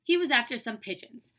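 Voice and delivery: expressive classroom reading; story read-aloud. Acted. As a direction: read it lively, acting out each character.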